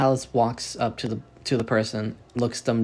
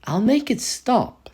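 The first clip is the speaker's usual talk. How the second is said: sadistic smile. Acted. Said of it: "a very sadistic smile".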